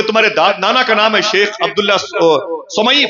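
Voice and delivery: high, excited questions one after another; a stranger's rising, excited questions; eager questioning. Acted. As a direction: ask it like you can hardly believe it.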